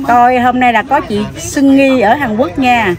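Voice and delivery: slow, deliberate shout-out to viewers; slow camera greeting. Pretend. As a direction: announce it slowly like a host. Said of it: "chị chào khán giả tiếng Hàn Quốc em nghe thử đi".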